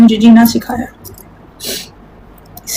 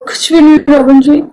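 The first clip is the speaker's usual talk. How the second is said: tearful, slightly higher-pitched denial; real tearfulness; 3 semitones higher than usual. Real, not acted. Woman telling Robin nothing is wrong, tearful. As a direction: hold back real crying, voice raised in pitch. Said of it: "क्यों रो क्यों रहे यार".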